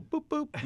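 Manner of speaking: cute imitated zap; playful boop boop. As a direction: mimic a tiny button press. Imitates giving dog a zap.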